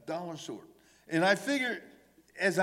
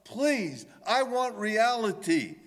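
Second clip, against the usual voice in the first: higher, pleading cry to God; 5 semitones higher than usual. Retold or imitated. Psalmist begging God for deliverance, higher pleading cry. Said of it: "he's crying out".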